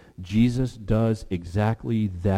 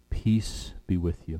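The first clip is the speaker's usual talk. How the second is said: slow gentle repeat; 3 semitones lower, 4 dB quieter than usual. Shown as a demonstration. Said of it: "repeats the blessing slowly".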